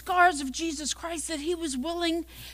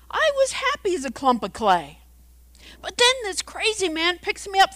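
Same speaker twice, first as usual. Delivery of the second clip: aggrieved teacup; 5 semitones higher, 4 dB louder than usual. Acted. Acts the teacup telling its ordeal.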